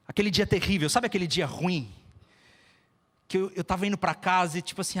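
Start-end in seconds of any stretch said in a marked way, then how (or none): none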